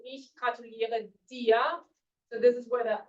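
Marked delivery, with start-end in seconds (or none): 0.0-1.8 slow, careful "Ich gratuliere dir"; slow model sentence. Shown as a demonstration. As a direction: spell it out for learners. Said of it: "I congratulate you".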